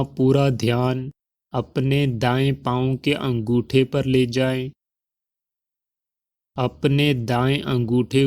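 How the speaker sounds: measured instructions with long pauses between phrases; calm, evenly paced meditation voice; guided meditation. Acted. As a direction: guide the listener gently into relaxation, phrase by phrase.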